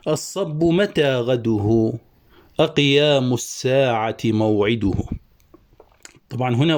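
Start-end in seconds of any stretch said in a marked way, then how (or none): 0.1-1.9 slow, measured poem recitation; slow classical verse reading; reciting verse. Shown as a demonstration. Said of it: "قال الحصر القيرواني". 2.6-4.9 raised, measured poetic recitation; reciting verse. Shown as a demonstration. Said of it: "قال الحصر القيرواني".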